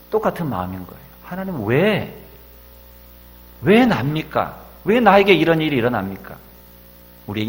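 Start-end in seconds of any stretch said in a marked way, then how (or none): 1.2-6.4 crying out why. Retold or imitated. Preacher voices a despairing cry.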